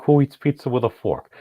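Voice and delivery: incredulous, scoffing question; outraged disbelief. Retold or imitated. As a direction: scoff at the very idea. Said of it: "I'm like".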